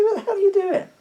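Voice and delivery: high, loud retold outburst; outraged yell. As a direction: re-enact shouting at the attacker. Retold quarrel with attacker.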